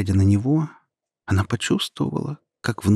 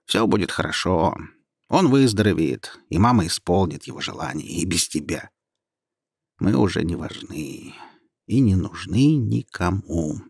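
sad; 3 semitones lower than usual. Acted. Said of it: "с грустью сказал голос".

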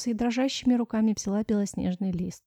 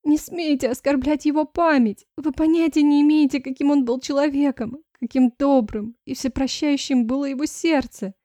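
higher, louder furious defence; indignant outcry; 5 semitones higher, 6 dB louder than usual. Acted. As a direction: hurl it at the stepmother. Daughter defends dead father. (дочь гневно защищает память отца)

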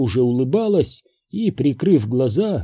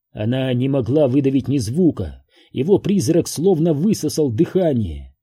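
ordinary delivery

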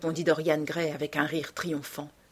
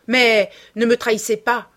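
high, loud, frightened moan; whining, fearful entreaty; wailing plea; 5 semitones higher, 9 dB louder than usual. A narrator's reading. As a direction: beg desperately, voice raised. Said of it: "gémit-elle".

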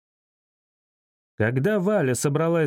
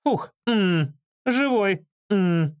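high-pitched happy relief; overjoyed gasp of words from an assistant; relieved delight; 5 semitones higher, much slower than usual. A narrator's reading. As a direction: exclaim with relief in a high woman's voice. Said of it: "обрадовалась помощница модельера".

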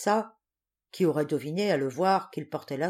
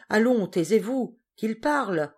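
hushing the room; 5 semitones higher, 6 dB louder than usual. A narrator's reading. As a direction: shout down the laughter. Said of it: "dit un client".

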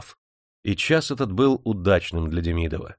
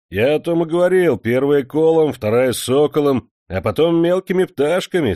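laughing; 6 semitones higher, 7 dB louder than usual. A narrator's reading. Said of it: "смеялся Свистунов".

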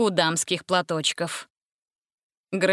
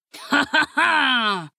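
slow, higher evil laughter; villainous laugh; 6 semitones higher, much slower than usual. A narrator's reading. Dracula laughs villainously at his prisoners. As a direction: cackle like a villain. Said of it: "Дракула злодейски расхохотался".

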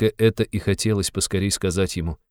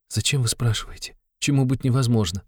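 higher, recoiling in disgust; with revulsion; 6 semitones higher than usual. Acted. Sonya rejects Raskolnikov's cruel question, higher and repelled. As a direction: push the question away in disgust. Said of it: "с отвращением сказала Соня".

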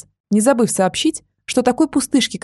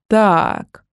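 ominous. Acted. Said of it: "зловеще произнёс брат".

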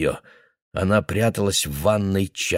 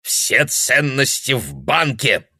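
put-on blurting old man; 5 semitones higher, slower than usual. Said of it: "выпалил он".

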